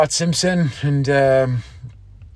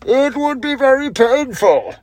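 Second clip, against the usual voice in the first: high, slow, muffled villain voice through a mask; menacing masked villain, drawn out; Bane impression; 10 semitones higher, 6 dB louder, slower than usual. Shown as a demonstration. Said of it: "So that's my impression".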